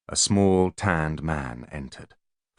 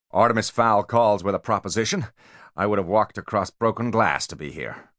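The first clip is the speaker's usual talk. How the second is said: a hint of a brash American; brash American businessman; 4 semitones higher than usual. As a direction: gush with slick flattery. Voices Spiro.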